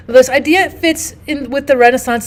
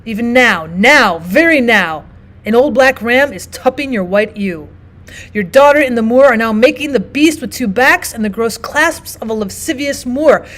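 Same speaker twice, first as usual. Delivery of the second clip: mocking Iago. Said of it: "He's going to say things such as".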